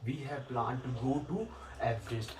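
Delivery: said very slowly, word by word, as a model; slow model sentence. Shown as a demonstration. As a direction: dictate the correct sentence slowly. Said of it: "केवल आएगा". (धीरे-धीरे बोलकर लिखवाया गया वाक्य)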